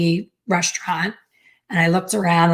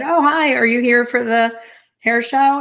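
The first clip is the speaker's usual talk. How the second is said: bright, high and a bit louder; eager greeting; 6 semitones higher, 3 dB louder than usual. Retold or imitated. Nineteen-year-old greeting the woman at the counter, high and eager. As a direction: chirp a friendly hello to a stranger. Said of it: "And I said".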